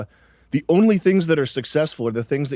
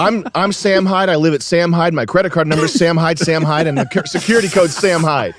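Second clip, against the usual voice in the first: mock robotic listing; 5 semitones higher, 8 dB louder than usual. Mocking autofill putting name everywhere.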